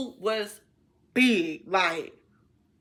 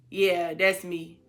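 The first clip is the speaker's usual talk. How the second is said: man's low voice; 5 semitones lower, slower than usual. Retold or imitated. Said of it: "he was like".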